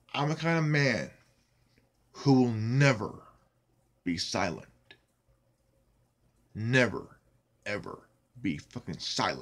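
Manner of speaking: very angry. A video maker, furious that his videos were taken down: pissed off. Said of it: "I am very goddamn pissed off".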